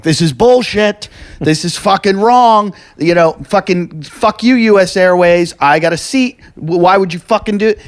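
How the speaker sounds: mock-furious complaint, dragging the words out; replaying a shouting match with cabin crew, angry but not a full yell; retold angry rant. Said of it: "And I'm yelling at the flight attendants".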